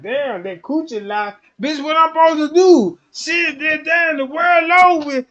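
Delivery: loud, high mock frustration, dragged out; frustrated outburst. A frustrated man voiced yelling over being denied. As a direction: yell it like a man losing control.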